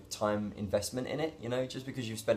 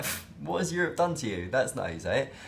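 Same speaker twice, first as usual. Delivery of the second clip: mock scoff; 4 semitones higher than usual. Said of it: "She's gonna be like".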